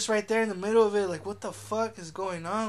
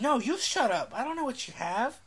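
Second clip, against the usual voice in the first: imitated indignant lady; 5 semitones higher than usual. Retelling the lady's comeback to the man, mock indignant. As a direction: play a woman firing back, lightly hammed up. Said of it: "the lady's like".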